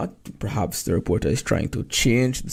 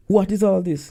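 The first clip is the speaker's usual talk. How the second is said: confused; 7 semitones higher than usual. Retold or imitated. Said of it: "indicating confusion".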